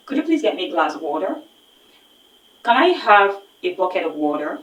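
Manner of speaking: example sentences in an American accent, flapped T in "water". Shown as a demonstration. Teacher giving American examples for students. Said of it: "The Americans pronounce water as".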